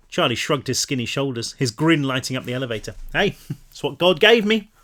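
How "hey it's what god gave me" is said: light laugh through the words, higher pitch; laughing off the teasing; laughing shrug. A narrator's reading. Charlie laughs off Pan's teasing, chuckling.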